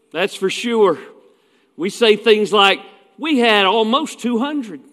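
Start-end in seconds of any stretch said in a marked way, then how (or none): 3.2-4.8 mock bragging preacher, pitched a bit higher; mock boasting. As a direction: imitate a preacher proudly quoting attendance. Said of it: "we don't ever sell it short".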